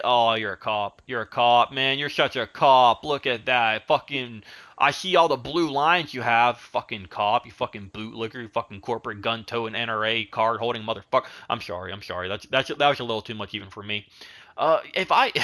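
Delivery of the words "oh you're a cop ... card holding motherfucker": a hammed-up rant that builds to insults; mock angry rant. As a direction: pretend to be furious at the player. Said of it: "I got so passionate there".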